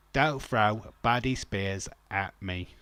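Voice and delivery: understated Michael Caine impression. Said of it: "That's my Michael Caine".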